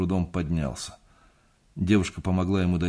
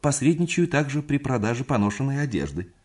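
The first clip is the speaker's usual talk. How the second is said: calling out; 8 semitones higher, 3 dB louder than usual. A narrator's reading. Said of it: "крикнул он мне".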